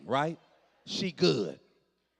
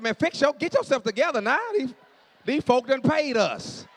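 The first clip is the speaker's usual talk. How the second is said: hushed scolding; 5 semitones higher, 5 dB louder than usual. Retold or imitated. Scolding crying wife mid-session.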